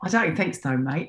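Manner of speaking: quick attempt at an Australian accent. Shown as a demonstration. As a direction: say it like an Aussie, mate on the end. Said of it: "Can you do an Au-, Australian accent?".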